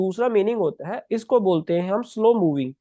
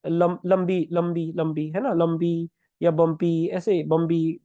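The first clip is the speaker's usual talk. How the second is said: slow repetition; 3 semitones lower, slower than usual. Shown as a demonstration. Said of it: "इसको lumpy भी बोलते हैं हम".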